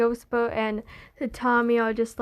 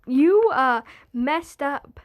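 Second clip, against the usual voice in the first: mock accusing; 3 dB louder, slower than usual. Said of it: "Ghostbo looks at Tommy being like".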